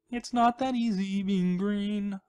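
slow put-on Kermit-style voice; frog voice. Doing a funny voice for viewers, slow frog voice. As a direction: croon it slowly like a little frog. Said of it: "I love doing the voices".

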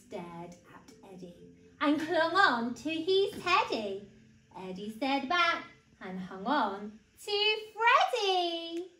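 put-on animated read-aloud for small children; story narration. A narrator's reading. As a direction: tell it clearly and expressively to little ones.

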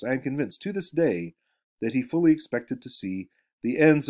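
reading a novel aloud to the class; story reading. Acted. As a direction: lecturer reading a story passage to students, lively reading voice. Reads novel passage aloud.

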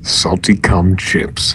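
low, slow mock salesman; a hint of a growly pitchman. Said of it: "in my growly salesman voice".

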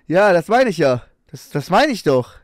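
loud, laughing "das meine ich"; laughing agreement. Real, not acted. Streamer laughs along with the video, loud and amused. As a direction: burst out laughing while agreeing.

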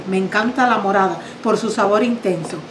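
usual speaking voice

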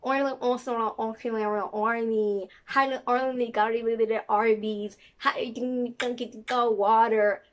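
mock South African sing-song gibberish; speaking in cursive. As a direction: run the made-up words together in a loose South African lilt. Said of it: "she's speaking in cursive".

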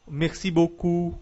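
beaucoup with ou like Portuguese u, slow; French merci beaucoup; French ou sound. Shown as a demonstration. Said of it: "U, simplesmente, como em".

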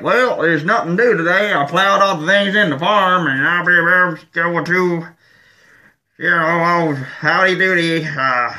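lampoon a bored country guy; half-hearted Southern hick impression; mock redneck voice. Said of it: "I can't do as good as".

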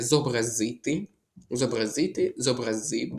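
«зобразити» and «зобразив» stressed on ZY; demonstrated correct stress. Shown as a demonstration. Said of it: "тут правильний наголос". («зобразити», «зобразив» з наголосом на «зи»)

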